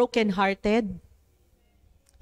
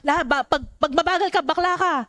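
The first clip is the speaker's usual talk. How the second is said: put-on higher, playful kid's chant; a hint of a child teasing in a game; voicing a child's tag rules, mildly; child's taunt; 6 semitones higher, faster than usual. Preacher voices a child at play.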